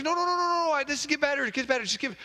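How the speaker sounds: very high, pleading husband; frantic husband. Acted. Husband begging his wife to wait, very high. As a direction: beg her to stay, squeaky.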